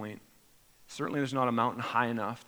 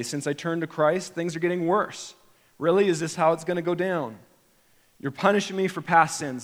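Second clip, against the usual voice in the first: indignant complaint; 4 semitones higher, 6 dB louder than usual. Retold or imitated. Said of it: "like we say".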